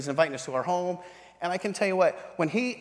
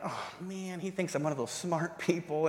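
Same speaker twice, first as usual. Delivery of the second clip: soft inner groan; retold private dread, said under the voice; dismayed aside; 6 dB quieter than usual. Handed a thick Bible, soft dismayed aside.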